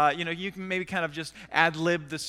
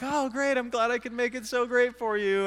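wry gladness; 5 semitones higher than usual. Retold or imitated. His sheepish reply, acted out.

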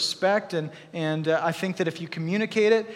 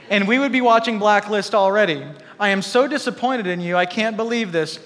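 raised, complaining wife's voice; mock nagging wife; 4 dB louder than usual. A wife scolding her husband in the garage, mock nagging. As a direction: play the disappointed wife scolding, a bit louder. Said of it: "Had she said".

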